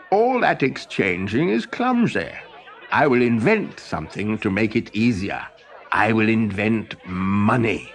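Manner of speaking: lightly voiced boastful inventor, chuckling; a proud inventor pleased with his plan; Olaf the inventor. Inventor Olaf announcing his clever plan, chuckling.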